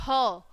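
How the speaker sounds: ह as "huh", breath plus short vowel; letter sound demo. Shown as a demonstration. Teacher showing the sound of H, letter sound demo. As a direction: sound out ह on its own. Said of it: "उसकी sound आएगी".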